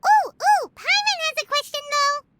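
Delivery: high, loud eager ooh ooh; eager interruption. Acted. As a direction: bounce in wanting to ask something. Eager to ask a question.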